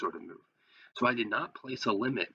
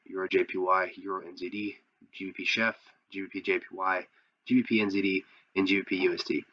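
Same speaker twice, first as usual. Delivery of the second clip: hoarse sick voice; talking through a cold, voice worn. Real, not acted. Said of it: "excuse my voice, I am a little sick".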